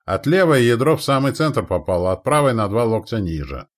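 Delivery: loud spotter's report, easing off; called-out report. A narrator's reading. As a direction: call the results back to the guns. Observer shouts a hit report.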